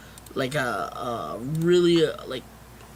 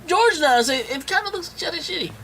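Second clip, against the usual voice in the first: exasperated teasing, pitched way up; high mock rant; 11 semitones higher, 4 dB louder than usual. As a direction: keep the rant going up high and loud.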